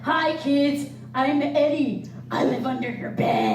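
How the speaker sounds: loud, playful monster voice; spooky kids' monster greeting; creepy playful under bed whisper. Acted. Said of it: "he's a little monster".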